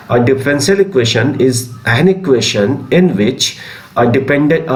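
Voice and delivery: slow, spaced-out dictation of a definition. Acted. Teacher dictating a definition to class twelve students, slow and spaced. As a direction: read it slowly so students can write.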